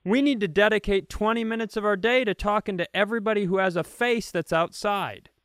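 a touch of a chirpy neighbor rushing through; mimicking a neighbour who talks to everyone, a little high; chatty neighbor. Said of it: "everybody makes talk".

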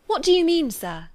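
high, loud bewildered question; astonished cry. A narrator's reading. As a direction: demand an explanation in surprise. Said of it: "cried Jane".

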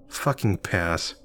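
fed-up visitor turning down the actor, slow grumble; grumbling. Acted. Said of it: "I grumbled".

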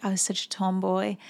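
a hint of South African accent; Candace Swanepoel. Host repeating the model's tomboy line, light South African accent. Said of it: "in her South African voice".

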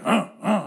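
short low grunt, twice; imitated grunts. Father meets his son's old teacher, imitated grunts. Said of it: "it was one of these".

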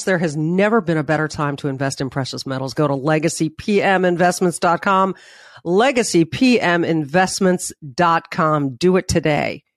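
stuffy nose from covid; blocked nose, nasal tone. Real, not acted. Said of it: "If I sound a little nasally".

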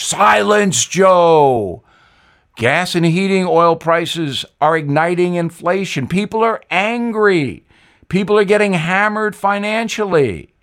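a ghostly Southern warning to Joe; Jimmy Carter. Acted. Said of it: "I'd know that accent anywhere".

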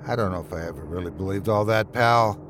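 a touch of sadness, let it slip out; sadly. Acted. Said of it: "says Togs sadly".

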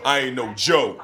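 An attempt at a rapper. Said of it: "I think I did it".

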